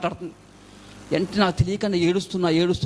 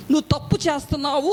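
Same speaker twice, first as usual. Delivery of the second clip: voice of God; 6 semitones higher than usual. Retold or imitated. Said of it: "ఒక voice విన్నాను".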